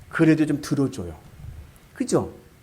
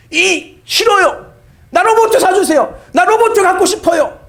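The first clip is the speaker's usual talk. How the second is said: put-on whining child; 8 dB louder than usual. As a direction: whine like a spoiled little boy. (로봇 사달라고 떼쓰는 아이)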